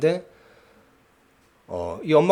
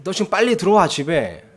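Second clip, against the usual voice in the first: tough mom; 4 semitones higher than usual. Retold or imitated. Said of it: "터프하신 분인 것 같아요".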